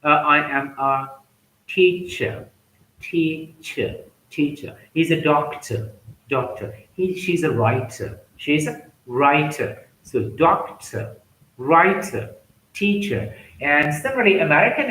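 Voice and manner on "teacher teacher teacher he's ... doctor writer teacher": "teacher", "doctor", "writer" with no final R; British non-rhotic. Shown as a demonstration. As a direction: drop the R at the end of "teacher". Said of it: "R towards the end is not pronounced".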